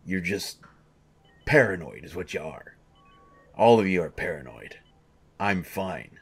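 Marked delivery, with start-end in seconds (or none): 3.6-4.8 louder, throwing the accusation at everyone; exasperated outburst. Acted. Patient snapping at the doctors and nurses, loud and irritated. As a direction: let your irritation spill over.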